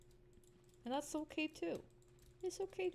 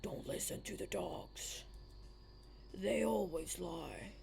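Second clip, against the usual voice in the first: horror-film whisper; 4 semitones lower, 4 dB quieter than usual. Pretend. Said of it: "Imagine that as a horror film".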